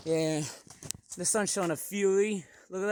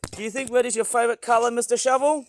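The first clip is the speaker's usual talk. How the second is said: playful question; 4 semitones higher, 6 dB louder, faster than usual. Pretend. Asking the toy shovel loudly.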